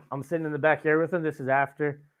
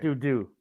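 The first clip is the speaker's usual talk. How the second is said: two light falling "doo" notes; bouncing sound. Retold or imitated. Flicking berries across the picnic table, playful bounce noise. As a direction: imitate a berry bouncing twice.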